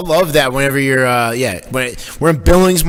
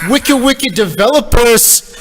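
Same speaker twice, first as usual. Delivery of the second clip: playful mock emphasis; 11 semitones higher, 5 dB louder, slower than usual. Jokey swap for worldwide.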